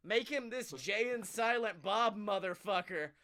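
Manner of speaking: emphatic, fed-up urging; exasperated plea. Acted. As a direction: plead loudly, easing off towards the end. Acted plea to the boss.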